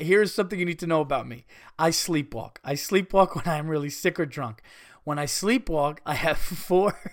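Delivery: reading through giggles; laughing. Real, not acted. Rereads the letter, still laughing.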